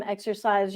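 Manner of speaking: "Exercise" said with an OR in the middle, like exorcise; exorcise pun. Shown as a demonstration. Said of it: "That would be exorcise, no exercising here".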